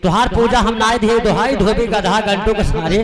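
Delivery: mock prayer.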